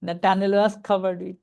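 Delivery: very slow, each word drawn out; deliberate teacher read; slow reading demo. Shown as a demonstration. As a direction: model the phrase slowly for students. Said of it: "preposition থেকে noun পর্যন্ত টেনে পড়তে হয়".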